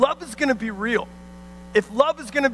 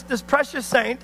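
sarcastic emphasis on precious; understated sarcasm. Real, not acted. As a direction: say precious with tongue in cheek. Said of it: "I say precious in a, in a, in a sarcastic way".

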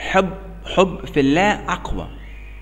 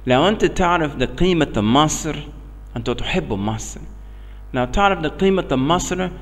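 American-accented broken Arabic; learner's Arabic with an American accent. Real, not acted. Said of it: "عربي مكسر".

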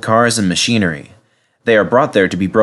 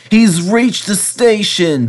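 slow, raised groan; dismayed groan; 9 semitones higher, slower than usual. A narrator's reading. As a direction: let it sag in dismay. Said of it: "Bertie groaned".

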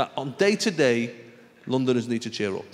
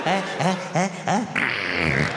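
imitated noise; much slower than usual.

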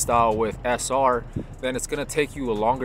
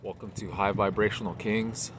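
usual speaking voice

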